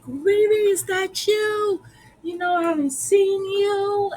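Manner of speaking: high-pitched, happily amazed imitation; retold surprised greeting. Jim recognizing Riri in his shop, acted surprise. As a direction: act out recognizing an old friend.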